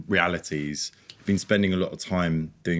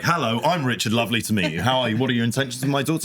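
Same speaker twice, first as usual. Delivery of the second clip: cheery interrogating dad; 5 semitones higher, faster than usual. Retold or imitated. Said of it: "He'd just be like".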